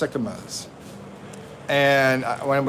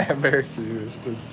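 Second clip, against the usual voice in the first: mimicking wife; 3 semitones lower, 6 dB quieter, much faster than usual. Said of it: "echoing wife's line".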